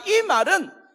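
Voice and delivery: high, loud, slow anguished cry; anguished cry of Jesus. Acted. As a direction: cry out from the cross in agony. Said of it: "예수님이 십자가에 달려 돌아가실 때". (십자가 위 예수님의 절규)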